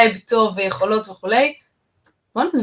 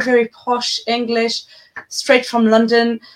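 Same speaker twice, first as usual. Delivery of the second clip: very slow, posh London English; posh British accent; much slower than usual. Shown as a demonstration. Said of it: "עוברת לאנגלית הנורא מפחידה ונורא בריטית".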